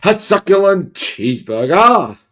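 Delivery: mock indignant yell. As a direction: imitate an outraged man yelling it. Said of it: "did he start yelling this".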